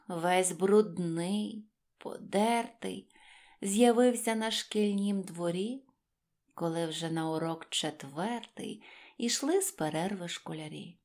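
plain reading voice

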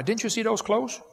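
exasperated mom. Retold or imitated. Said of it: "It's like".

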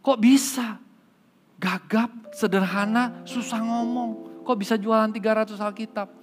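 high-pitched, incredulous questioning; kaget. Acted. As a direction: act out a stunned pastor who can't believe it. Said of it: "Kaget, Pak Pendeta". (pura-pura kaget, tidak percaya)

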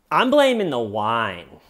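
mock proclamation. Suspect blames wine to detectives, mock proclaiming. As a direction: proclaim it with a big swoop, imitating her. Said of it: "She goes like this".

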